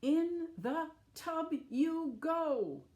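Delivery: high, loud, slow command; stern order. Acted. Mother ordering animals into the bath, loud stern command. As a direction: order them straight into the tub. Missus Wishy-Washy orders them in.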